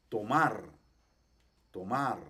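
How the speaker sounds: tomar with the last A lengthened and accented; long stressed A. Shown as a demonstration. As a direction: lean on the A of "tomar". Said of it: "una A un poquito larga, un poquito acentuada".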